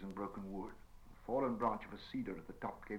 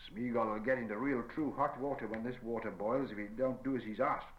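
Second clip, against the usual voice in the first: growled; 5 dB louder than usual. Acted. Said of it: "growled Sam".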